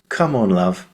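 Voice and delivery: the mum's line in a plain southern English accent. Shown as a demonstration. Actor quoting the mum's line, southern English accent. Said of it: "I say it in my southern accent here in the U K".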